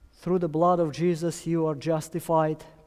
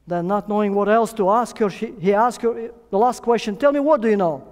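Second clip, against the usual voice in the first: louder and higher, building to the policeman's question; building storytelling climax; 4 semitones higher, 5 dB louder than usual. Retold or imitated. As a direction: build tension toward the question.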